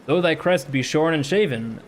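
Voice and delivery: measured, dramatic poem reading; poem recitation. Acted. Reads The Raven aloud.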